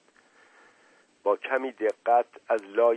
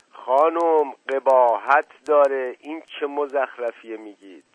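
loud, raised-pitch scolding that eases at the end; indignant shout; 4 semitones higher, 6 dB louder than usual. Acted. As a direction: cry out in outrage. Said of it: "دایی جان ناپلون فریاد زد". (فریاد خشمگین)

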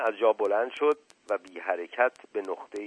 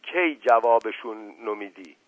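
mild raised call cutting him off; understated shout at the servant; shouting over him; 3 semitones higher, 6 dB louder than usual. Acted. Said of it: "فریاد زد".

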